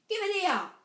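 high, loud demand across the air; calling out. A narrator's reading. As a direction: shout the order at a rival. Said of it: "Harry called".

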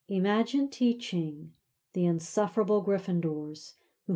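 a hint of a bitter, sneering teacher; lightly voiced resentful professor; bitter snide man. Severus recalls bitter old torment.

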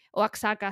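Oaxaca with a ks, "oak-SA-ka"; x pronounced as ks. Shown as a demonstration. Vlogger retrying the name for Mexican friends, Oaxaca with a ks. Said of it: "si no lo digo mal".

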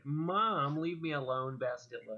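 put-on high, loud, whiny teenage complaint; whiny emo teen. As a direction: whine at Mom like a moody teen. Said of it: "a lot of those are like".

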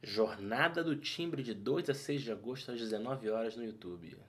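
smooth, soft PA announcer voice; airport announcement. Pretend. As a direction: read it like a terminal announcement. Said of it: "eu tentei fazer a voz do aeroporto". (voz de anúncio de aeroporto)

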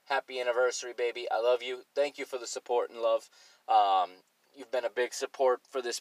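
soft, tender anniversary wish. Real, not acted. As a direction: speak softly to your wife. Anniversary message to his wife.

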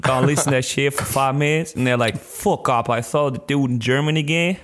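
lightly put-on American street accent; put-on gangster English accent. Co-host being honest with y'all, gangster accent. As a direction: talk in a mock gangster accent. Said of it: "are you going to do this accent".

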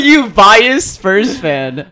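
high, slow teasing; laughing. Real, not acted. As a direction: tease him laughing. Teasing accusation.

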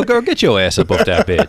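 exaggerated stereotyped African American accent; put-on Black voice. Shown as a demonstration. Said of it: "I just do black voice".

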